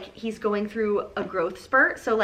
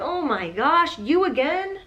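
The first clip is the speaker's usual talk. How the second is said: exasperated; 4 semitones higher, slower than usual. Retold or imitated. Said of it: "I'd be like".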